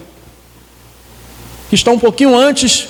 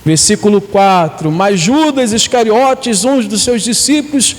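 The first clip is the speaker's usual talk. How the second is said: emphatic, measured storytelling from the Bible; scripture reading. Acted. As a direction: read the passage aloud, leaning on key words.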